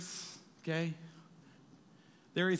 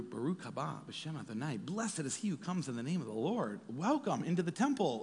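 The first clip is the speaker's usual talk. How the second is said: reverent welcome. Acted. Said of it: "in Hebrew".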